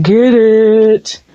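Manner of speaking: whispered cheer. Real, not acted. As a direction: breathe it out, unvoiced and playful.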